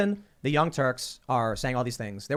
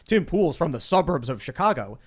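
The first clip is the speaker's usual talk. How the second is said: mocking taunt; slower than usual. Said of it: "what they love to say now is".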